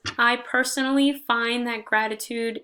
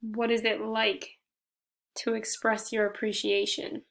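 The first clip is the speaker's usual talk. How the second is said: gentle meditation guide with long pauses between phrases; guided meditation. Shown as a demonstration. Leading listeners in reflecting on gratitude, guided meditation. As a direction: guide them through breathing, slightly softened, unhurried pauses.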